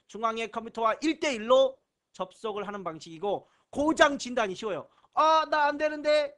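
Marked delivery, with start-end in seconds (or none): 5.1-6.4 a lightly voiced fretting computer, pitched up; voicing a broken computer. Teacher voices a failing client, lightly fretting and high. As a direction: whine it like a machine that just broke.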